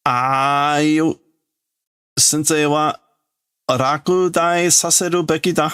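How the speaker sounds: put-on big bully kid. Big kid jeers at the teacher, lightly voiced brash taunt. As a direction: sneer that the teacher should fail.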